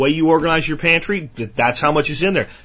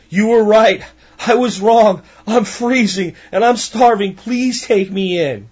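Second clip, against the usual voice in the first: higher, slowing plea that fades; pleading grasshopper; 5 semitones higher, slower than usual. Acted. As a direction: beg for shelter, cold and desperate. Freezing grasshopper begs ants.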